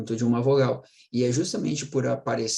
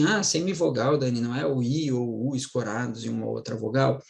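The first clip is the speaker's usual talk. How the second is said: mocking student. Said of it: "Tem gente que diz assim".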